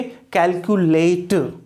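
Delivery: "कैलकुलेट" with a full long vowel at the end; verb "-ate" pronunciation. Shown as a demonstration. Teacher gives a verb example, "कैलकुलेट" ending "-late". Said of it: "एटीई को क्या करा".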